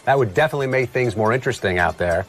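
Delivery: ordinary delivery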